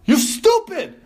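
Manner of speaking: hammed-up rage, nouns and verbs only; broken-English screaming. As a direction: scream it like you can't finish a sentence. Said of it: "you just yell out".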